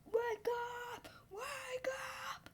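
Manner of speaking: high, very soft drawn-out call; small, high, hushed wake-up call; hushed mock call. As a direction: call out softly from far away. Child voices a retold call.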